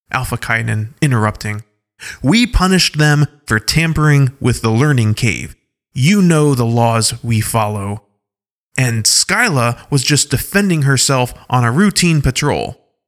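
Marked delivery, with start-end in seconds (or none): 2.2-12.9 raised, firm defense; firm tribal leader. Acted. Alpha Kaidan interrupting to defend Skyla, firmly. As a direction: state the law firmly.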